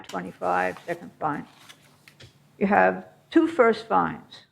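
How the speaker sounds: muffled behind a mask; speaking through a cloth mask; through a face mask. Real, not acted. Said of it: "Can you hear me with the mask on?".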